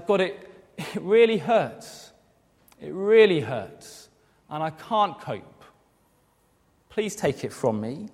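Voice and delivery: slow, a touch of anguish; mild pained prayer, slowed down; imagined pained plea. Retold or imitated. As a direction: plead slowly as if hurting. Paul pleading in pain.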